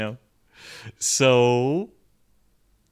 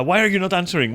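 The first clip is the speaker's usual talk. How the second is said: mock needy demand, higher and louder; pushy demand; 6 semitones higher, 5 dB louder, faster than usual. Pushy fan demanding a reply in DMs, needy. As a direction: press hard for an answer, impatient. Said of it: "She's literally pushing me, going like".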